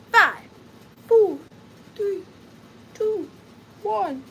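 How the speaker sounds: loud, high countdown calls; hyped countdown to the sale; countdown shout. Real, not acted. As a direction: call out the last numbers. Live countdown to sale start.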